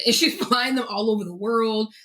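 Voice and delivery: laughs through the words; amused, chuckling as she tells it; giggling while describing the flying mother; laughing. Real, not acted. Laughing at her own story.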